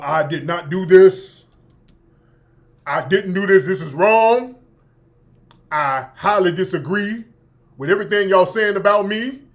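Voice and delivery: lightly deepened mock-butch denial; bass-voiced Jussie. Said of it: "get some bass in his voice".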